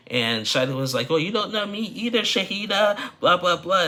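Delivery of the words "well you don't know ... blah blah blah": high, loud mock yell thrown right back; screaming back. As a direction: shout back at her in the same heat. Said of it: "screaming and hollering".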